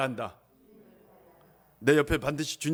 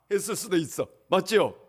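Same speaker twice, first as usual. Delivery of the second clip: usual speaking voice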